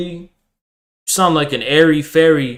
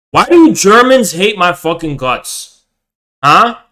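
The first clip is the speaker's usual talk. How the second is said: "do" pushed, slightly louder question; louder demand; 3 semitones higher, 5 dB louder than usual. Real, not acted. Streamer demanding why Germans hate him, louder. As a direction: press the question harder. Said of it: "repeats the question louder".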